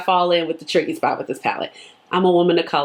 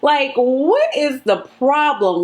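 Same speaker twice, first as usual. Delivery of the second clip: exasperated; 5 semitones higher, much slower than usual. Retold or imitated. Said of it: "and I'm like".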